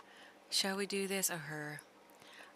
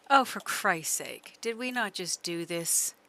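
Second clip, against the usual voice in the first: exasperated; 7 dB louder than usual. Real, not acted. Horse wanders off again.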